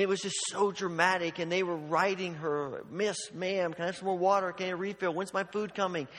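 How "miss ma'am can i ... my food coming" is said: mimicking pestering customers in a rapid list; mock-demanding calls for the waitress; badgering diners. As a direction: pile up the requests like impatient diners. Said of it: "everyone in the place was just badgering".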